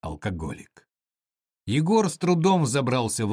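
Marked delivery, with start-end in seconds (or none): 0.0-0.9 low, soft disdainful remark; disgusted. Acted. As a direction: spit the word out with contempt. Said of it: "Пегая сказала брезгливо".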